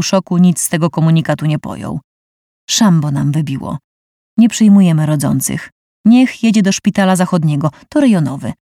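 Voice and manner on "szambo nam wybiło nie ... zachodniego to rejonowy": curt receptionist. Acted. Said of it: "wycedził głosik".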